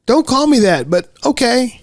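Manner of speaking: put-on little girl giving in with a sigh; high kid voice. Shy new friend answering Mooney, high and meek. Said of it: "And then Jancy says".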